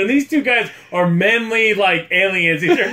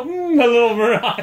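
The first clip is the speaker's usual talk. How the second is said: higher, hammed-up lovesick moan, half laughing; mock tearful pining; 4 semitones higher than usual. Co-host imitating lovesick Kelly in her quarters, mock tearful pining. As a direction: imitate someone crying along to a love song. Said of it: "Crying and playing some song".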